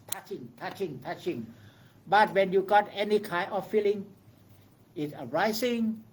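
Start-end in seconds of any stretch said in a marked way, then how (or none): 0.1-1.5 soft noting. Shown as a demonstration. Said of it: "we call pause".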